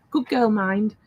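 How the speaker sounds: imitated Geordie lilt on "mind"; Geordie twang. Granny quoting her granddaughter's new saying, light Geordie twang. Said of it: "pick up her Geordie twang".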